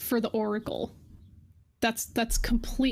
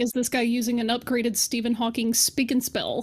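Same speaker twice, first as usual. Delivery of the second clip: ordinary delivery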